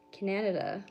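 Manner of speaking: "Canada" stretched to four syllables, kuh-NAN-uh-duh; mock mispronunciation. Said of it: "Americans don't, like, they can't, they say".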